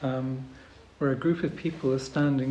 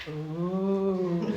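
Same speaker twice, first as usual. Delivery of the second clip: long drawn-out "oh", slightly raised; imitated machine noise; 4 semitones higher than usual. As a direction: imitate a droning machine next door. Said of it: "the machine".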